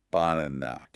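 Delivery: "banana" with tiny schwas first and last; schwa pronunciation. Shown as a demonstration. Teacher showing how the word sounds, reduced vowels. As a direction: stress the middle of "banana", reduce both ends. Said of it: "the first and last syllables become quiet".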